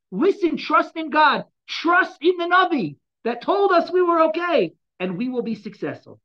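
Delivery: rally the people before battle, slowly; impassioned exhortation. Acted. Voices the king exhorting people.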